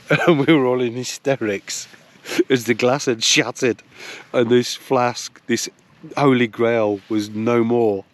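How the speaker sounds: can barely get it out for laughing; laughing while telling. Real, not acted. Recalling the flask shattering, giggling through the words.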